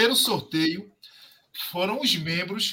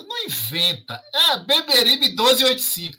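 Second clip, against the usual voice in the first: insistente; 7 semitones higher, 5 dB louder than usual. Real, not acted. Insists on correct stadium address.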